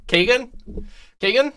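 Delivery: high, laughing call of the name; laughing protest. Real, not acted. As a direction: laugh while calling him out. Laughing at a friend's joke.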